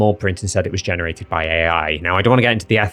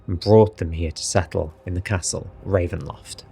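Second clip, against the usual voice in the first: Strahd voice. Acted. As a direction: read it as seriously and dramatically as possible. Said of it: "I'll do it in my Strahd voice".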